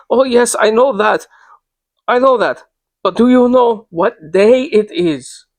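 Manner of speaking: high, urgent, last line slowed; excited insistence. Acted. Old lady pressing her warning on the traveller, high and anxious. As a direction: insist fearfully, dragging the final question. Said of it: "in such an excited state".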